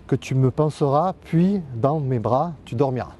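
measured love-poem reading, line by line; poem recitation. Acted. Man reciting Apollinaire's love poem to Lou, poem recitation. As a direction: recite a love poem, lifting then settling each phrase.

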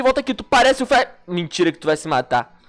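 ordinary talk, nothing marked

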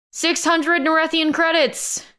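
high, slow shouted bid. A narrator's reading. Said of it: "he shouted".

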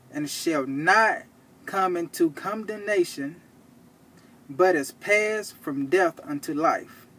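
slow, emphatic Bible reading; scripture reading. Real, not acted. Preacher shows the congregation proof in John, slow scripture reading. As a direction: read the verse out deliberately, phrase by phrase.

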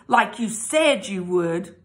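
spiteful. Acted. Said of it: "I said spitefully".

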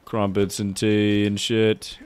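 jokey British accent attempt; casual mock-British voice. Shown as a demonstration. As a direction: put on a stereotype British accent. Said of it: "Can you do a British accent?".

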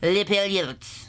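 Les paillettes drawn out at half speed, falling at the end; slow careful repeat. Shown as a demonstration. Vlogger copies a pronunciation clip, slowly and carefully.

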